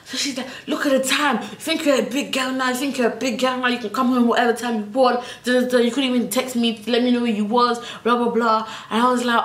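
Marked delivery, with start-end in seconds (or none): 0.7-8.7 mum voice. Retold or imitated.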